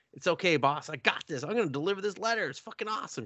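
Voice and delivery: high, keen and quick to agree; eager rookie. Retold or imitated. New girl assures her boss she'll deliver it, eagerly.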